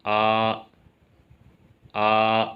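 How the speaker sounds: level, steady आ held on one pitch; flat first tone. Shown as a demonstration. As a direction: sing आ flat and even, no rise or fall. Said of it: "तो इसकी आवाज़ होगी".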